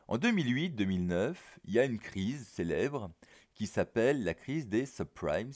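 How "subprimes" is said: subprimes said the French way, like "soplaïm"; a self-mocking French accent on subprimes; French-accented English. Real, not acted. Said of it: "ce que je dis avec mon bel accent".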